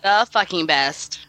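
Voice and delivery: low, slow, dragging its feet; unenthusiastic. Acted. Cohost reluctantly repeating the tagline, low and dragging. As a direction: mumble it like a chore. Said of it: "Can you do that with, like, a little bit more?".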